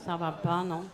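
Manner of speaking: low, soft comic aside; muttered reproach. Acted. Poet checking the outburst after singing, low muttered reproach. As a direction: drop right down into a quiet aside.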